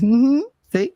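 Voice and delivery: a hint of a scolding grandmother; lightly voiced knowing grandma.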